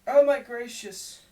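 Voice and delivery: high, loud theatrical wail; feigned distress for the crowd; young woman's cry. A narrator's reading. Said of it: "said the young woman".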